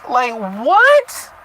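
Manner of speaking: high, put-on whiny apology voice; mocking Cecilia. Reader parodying Cecilia's instant apology, high mocking whine. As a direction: parody her sudden remorse. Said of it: "Just like".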